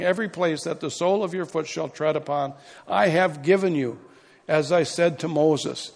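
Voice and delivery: preaching at full force. Acted. Reads scripture with force.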